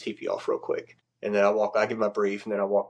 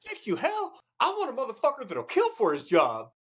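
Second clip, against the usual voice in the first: gruff chief. Retold or imitated. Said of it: "And he goes".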